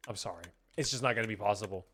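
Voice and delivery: quietly refusing, apologetic; mock refusal. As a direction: let them down softly and sorrowfully. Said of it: "I'd be like".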